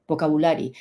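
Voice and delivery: "vocabulary" with plain bu, not biu; mispronounced vocabulary. Shown as a demonstration. Teacher repeating the form to avoid, mispronounced vocabulary. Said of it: "no vocabulary".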